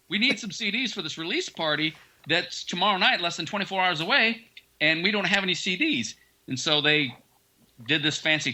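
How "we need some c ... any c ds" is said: higher-pitched, pressing complaint; retold urgent plea. Band pleading with CD presser before release party, retold urgency. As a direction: press the problem in a mildly worked-up voice.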